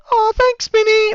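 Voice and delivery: very high, squeaky mock thanks; a falsetto, sarcastic thank-you. GM voicing Ara thanking Minnie in a very high, sarcastic squeak. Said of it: "just after you've gone".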